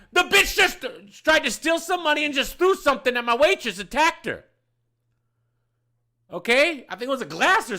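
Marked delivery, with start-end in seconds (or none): 0.1-4.5 loud, high self-justification; indignant retort. Retold or imitated. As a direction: fire back at the scandalized onlookers. Indignant answer to the onlookers.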